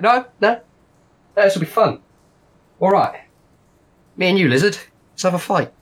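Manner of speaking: put-on high, loud gangster accent that drifts off Snatch; a boss pickle hamming up a Snatch-style London gangster accent; wild mixed accent. Pickle boss taunts the lizard to a fight, in a loud drifting London gangster accent. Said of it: "I don't know what accent he's doing".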